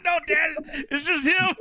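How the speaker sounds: put-on kid yelling back. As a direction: shout the answer back to dad. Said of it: "He's like".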